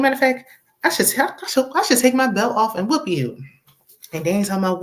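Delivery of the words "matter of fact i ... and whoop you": angry threat. Retold or imitated. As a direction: fire it off like a furious friend. Coworker threatening Gary, acted quote.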